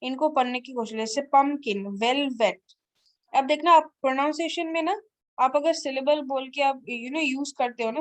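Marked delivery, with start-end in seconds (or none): 1.2-2.6 "पम्पकिन, वेलवेट" each in two beats, pump-kin, vel-vet; read as divided. Shown as a demonstration. Teacher showing learners divided reading, "पम्पकिन, वेलवेट" syllable by syllable. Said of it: "इनको जैसे divided है ना".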